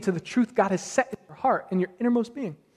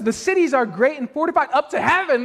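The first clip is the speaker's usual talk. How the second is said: a raised, mock-awed exaggeration of the claim; 5 semitones higher than usual. Shown as a demonstration. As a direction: overstate it like a scared Israelite. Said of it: "look at how we exaggerate things".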